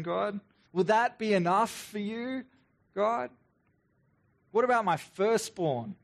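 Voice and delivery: mock-eager bitter offers to God; sarcastic. Israelites bargaining sarcastically with God, bitter mock offers. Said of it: "It's almost sarcastic".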